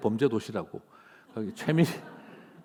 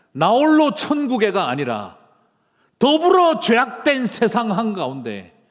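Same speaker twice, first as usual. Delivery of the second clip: raised, ringing pulpit voice building to a blessing; impassioned Korean sermon delivery; full-force preaching; 8 semitones higher, 6 dB louder than usual. Acted. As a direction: proclaim it like a revival preacher.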